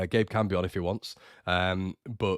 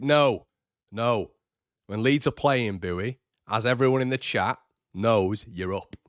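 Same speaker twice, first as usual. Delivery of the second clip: firm, louder mock protest; mock indignation; 3 semitones higher, 4 dB louder, slower than usual. Streamer refusing fans any excuse on match day, mock indignant. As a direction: lay down the law in mock outrage.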